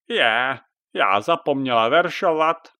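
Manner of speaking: a witch catching her own mistake; surprised witch. Acted.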